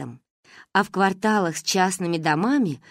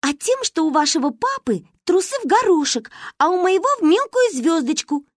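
put-on sleepy yawning girl voice; sleep talking; 10 semitones higher, 4 dB louder than usual. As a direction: mumble it through a yawn. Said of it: "сладко зевнула Манька".

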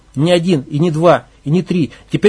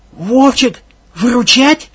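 mocking echo; 6 semitones higher, 4 dB louder, much slower than usual. Leader mocks her plea.

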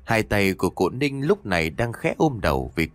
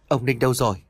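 shrill booming voice; 6 semitones higher, faster than usual. A narrator's reading. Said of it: "một giọng nói âm vang the thé".

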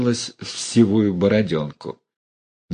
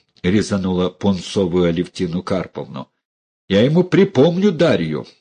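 threatening fury. Acted. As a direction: threaten them coldly, then order. Dunya threatens the relatives.

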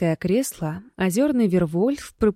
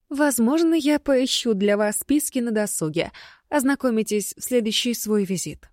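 ghost voice; 4 semitones higher than usual. Acted. Ghost lady keeps flirting.

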